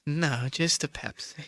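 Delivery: put-on slow, soft, flat awkward teen; Napoleon Dynamite. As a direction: drag it out, deadpan and awkward. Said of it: "your Napoleon Dynamite impression".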